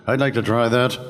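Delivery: lightly put-on actor's voice; volunteer with a touch of mimicry; Ted Knight. Colleague raising his hand to audition, lightly imitated voice. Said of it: "his Ted Knight voice".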